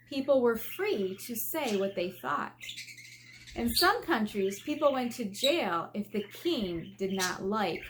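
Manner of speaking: put-on lively storybook reading for kids; gently expressive read-aloud voice; reading aloud to children. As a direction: read it like a picture book to a class.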